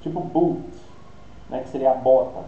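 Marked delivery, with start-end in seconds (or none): 0.2-0.6 "boot" with a long "oo" vowel; "boot" said as a long, rounded boot; long U sound. Shown as a demonstration. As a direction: stretch the U in "boot". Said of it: "som assim comprido".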